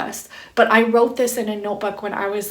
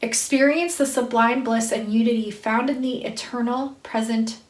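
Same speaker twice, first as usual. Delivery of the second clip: spiritual card reading. Acted. Reader to listeners awakening them to love, intoned spiritual reading. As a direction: read it as a measured invocation. Reads card message aloud.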